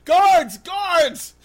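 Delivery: high yells for help; panicked shouting. Acted. Horrified husband calling the guards, panicked shout. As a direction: call out urgently, building to a full shout.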